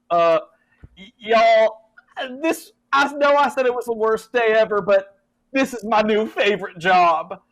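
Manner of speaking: high, loud character voice; halting start, then loudly proclaim it; Jed, earnest declaration. Acted. Doomed Jed to the party, loud heartfelt declaration. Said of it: "And then he's like".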